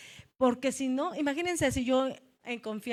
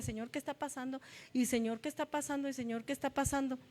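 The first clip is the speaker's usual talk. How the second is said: much softer, murmured plea to God; hushed prayer; 9 dB quieter, faster than usual. Retold or imitated. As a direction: pray it under your breath, retelling. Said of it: "Yo decía".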